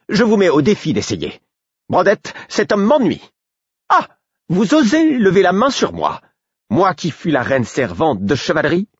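aiguë et forte, pleine de défi; hautaine outrée. Acted. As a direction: toiser le garde. Patience defies guard. (noble outrée qui défie)

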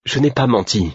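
high, plaintive denial. A narrator's reading. Man disconcerted by his friend's anger, plaintive. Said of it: "fis-je plaintivement".

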